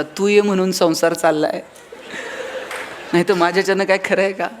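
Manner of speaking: a hint of a Rajesh Khanna hero line; lightly hammed-up film-hero charm to soothe the wife; filmy romantic dialogue. Husband soothes angry wife with a filmy line, mock romantic. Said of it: "एक dialogue मारायचा".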